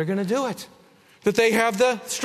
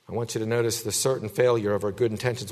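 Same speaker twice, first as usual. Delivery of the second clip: quick emphatic repeat; 8 semitones lower, 3 dB quieter, faster than usual. Shown as a demonstration. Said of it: "repeated faster".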